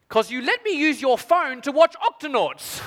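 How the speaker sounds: put-on high, slow little girl voice; child's voice. Daughter sweetly explaining to her dad, high and slow. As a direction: innocent toddler delivering the punchline. Toddler's punchline.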